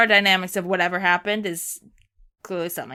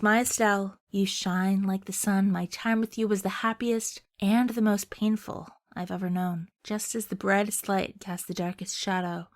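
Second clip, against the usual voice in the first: tender farewell; 6 dB quieter than usual. Acted. Joshua's farewell as Estelle fades.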